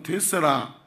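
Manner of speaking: lightly imitated Jeolla accent; joking Jeolla dialect quote. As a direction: say it like a Jeolla local. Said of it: "전라도는".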